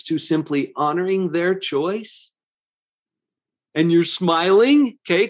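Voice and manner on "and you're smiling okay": smiling voice. Shown as a demonstration. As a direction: say it with an audible smile. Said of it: "can you hear the smile in my voice".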